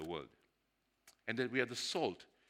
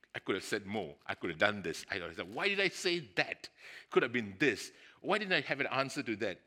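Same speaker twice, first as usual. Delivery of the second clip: imitating frustrated second-guessing, building louder; acted self-reproach; 6 dB louder than usual. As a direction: berate yourself, rising into exasperated questions. Acts out own self-reproach afterwards.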